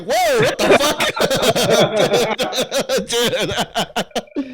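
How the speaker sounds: mock startled outcry; mock shock. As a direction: act startled. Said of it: "I'm like".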